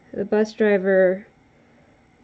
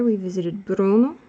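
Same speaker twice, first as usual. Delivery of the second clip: Slavic accent. Shown as a demonstration. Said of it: "horrible attempt at a Slavic accent".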